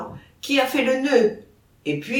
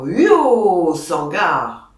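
shouting at the bull; 7 dB louder, much slower than usual. A narrator's reading. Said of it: "leur voix s'élevait en lui criant".

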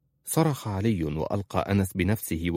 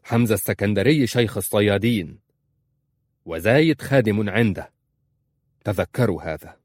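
firm; 4 dB louder than usual. Acted. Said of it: "قال في حسم".

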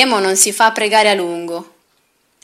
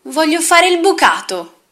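high, sweet little doll voice; 8 semitones higher, 3 dB louder than usual. Acted. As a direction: speak like a dainty toy doll. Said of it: "ma stavolta con voce da bambola".

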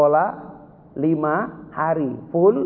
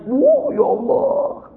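high, drawn-out cry of wonder; overcome exclamation; 3 dB louder, much slower than usual. Real, not acted. Preacher moved by his child's words, high and slow. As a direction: lift it up slowly in awe.

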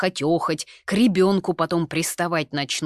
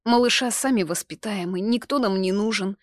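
sobbing lightly; 5 semitones higher, 5 dB louder than usual. A narrator's reading. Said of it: "всхлипывая".

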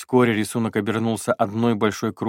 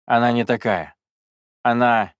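pleading; 3 semitones higher, 6 dB louder than usual. Acted. Jacques defends the witch.

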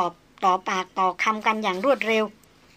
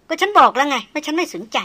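aloof, even tone; 6 semitones higher, 5 dB louder than usual. Acted. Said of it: "หางเสียงนั้นเรียบๆ แฝงไว้ด้วยความไว้ตัว".

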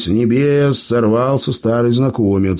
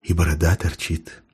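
dry remark; 5 semitones lower, 5 dB quieter than usual. Acted.

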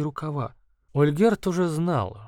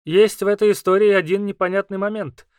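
higher, louder squeaky creature; 4 semitones higher, 5 dB louder than usual. Acted. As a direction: speak as a small squeaky beast. Kauru speaks.

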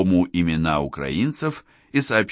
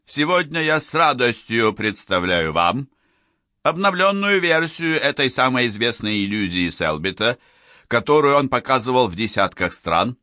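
lightly voiced showman hosting the crowd; booming circus ringmaster; 2 semitones higher than usual. Showman addresses the audience.

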